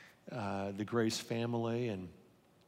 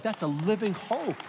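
emphatic proclamation; 8 semitones higher, 4 dB louder than usual. Real, not acted. Preacher lifts the key phrase.

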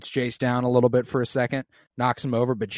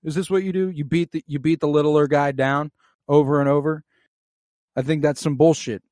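higher, louder mock outrage; a touch of indignant protest; indignant Harwin; 3 semitones higher, 5 dB louder than usual. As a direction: call out the bully, half-hearted anger. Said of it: "and he's like".

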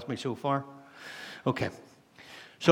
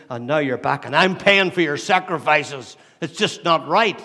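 angry. Acted. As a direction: act out the aggrieved elder brother, getting more heated. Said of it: "the elder brother's angry".

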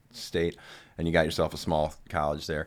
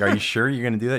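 acted doubtful question, higher and louder; incredulous retelling; 6 semitones higher, 6 dB louder, faster than usual. Friend checking on buddy's Iowa plan, incredulous. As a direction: question a friend in raised-voice disbelief.

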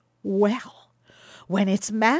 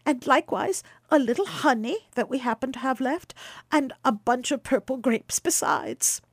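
eager Baucis; 5 semitones higher than usual. Acted. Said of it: "cried Baucis".

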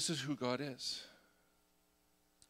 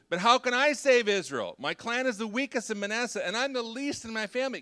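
higher, louder, whiny mock sniffle; mock sniffling; 9 semitones higher, 6 dB louder than usual. Preacher imitating Gideon's whimper to the congregation, mock sniffling. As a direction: whimper it like a scared kid playing weak. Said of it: "Can you hear the sniffling?".

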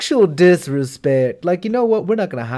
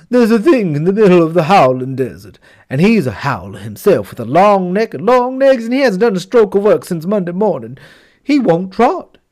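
tattling horse; 3 semitones higher, 5 dB louder than usual. Acted.

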